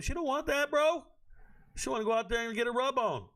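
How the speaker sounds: yelping it high in disbelief; high exasperated shout. Real, not acted. Streamer scolding chat in a high exasperated yell.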